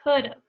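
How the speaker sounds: Could've with the final V sounded. Shown as a demonstration. Teacher to class, modeling the final V in could've. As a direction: end clearly on V in Could've. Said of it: "Make sure you say the V at the end".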